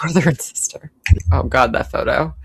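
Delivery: whispered aside. Real, not acted. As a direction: whisper it like a secret. Whispered joke about the couple.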